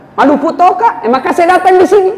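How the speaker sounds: high, fast, laughing local dialect; Makassar dialect joke. Acted. Umar joking to Abu Bakar in local dialect, laughing. Comic dialect quip in story.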